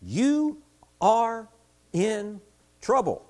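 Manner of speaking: God warning Judah, lightly voiced stern prophet. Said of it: "speaking the words of God to Judah".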